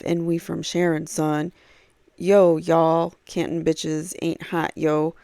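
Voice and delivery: lightly imitated street-tough swagger, barely changed from his own voice; mock tough-guy voicemail. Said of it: "'cause I don't talk like this".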